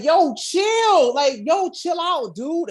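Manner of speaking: high, laid-back bro voice; chill surfer dude. Retold or imitated. Zach calming Akron, in a high laid-back voice. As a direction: tell him to relax like a chill dude.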